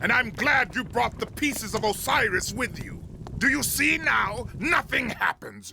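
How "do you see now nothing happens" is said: gloating shout. Acted. Villain gloats over failed ritual.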